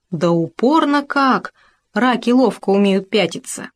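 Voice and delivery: usual speaking voice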